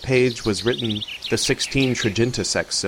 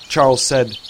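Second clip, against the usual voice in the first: plain reading voice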